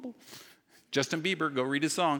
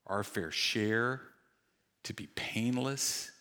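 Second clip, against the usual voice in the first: prayer; 2 semitones lower than usual. Real, not acted. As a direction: pray aloud for the congregation, unhurried. Pastor leads prayer.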